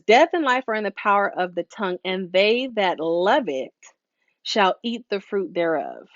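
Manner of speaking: solemn scripture read-aloud. Shown as a demonstration. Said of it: "Imma read it to you".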